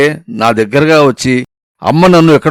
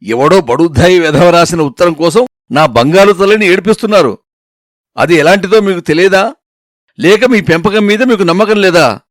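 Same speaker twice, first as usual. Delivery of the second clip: grandma scolding; 3 semitones higher than usual. Acted. Grandmother scolds the parents for doubting her, indignant. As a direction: put the whole family in their place. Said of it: "నాలుగు చీవాట్లు వేసేసరికి".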